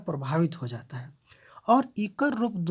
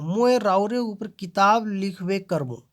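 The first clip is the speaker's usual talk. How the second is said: लिखवे करबो weighted and louder; stress on the verb; 3 semitones higher, 5 dB louder than usual. Shown as a demonstration. Teacher showing verb stress with लिखवे करबो pressed. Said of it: "क्रिया में जोर दे के".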